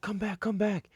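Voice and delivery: high-pitched mock female call; squeaky put-on beckoning; imitated woman calling. Imitating the women calling him back.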